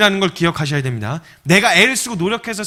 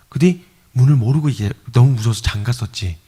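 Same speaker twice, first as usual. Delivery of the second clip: ordinary talk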